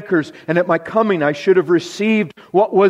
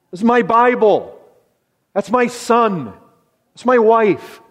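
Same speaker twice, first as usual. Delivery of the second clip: mock possessive voice; 4 semitones higher than usual. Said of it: "We just so naturally like to say".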